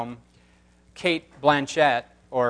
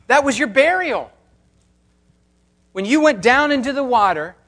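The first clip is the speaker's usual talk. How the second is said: Paul's response; 5 semitones higher than usual. Retold or imitated. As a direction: preach it with rising passion. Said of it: "And Paul's response is".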